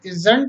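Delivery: isn't said as one syllable cluster IZ-nt; isn't spoken as a teaching demo; pronounce isn't. Shown as a demonstration. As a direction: say isn't, dropping the o. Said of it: "जो pronunciation है वो".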